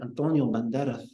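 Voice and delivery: Antonio Banderas dropped into a put-on Spanish accent; mock Spanish accent. Shown as a demonstration. Teacher mocking speakers who drop into accents, mock Spanish. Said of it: "when they drop into the accents".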